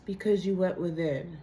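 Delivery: raspy sick voice; hoarse from the flu. Real, not acted. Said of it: "Oh my God, I really sound bad".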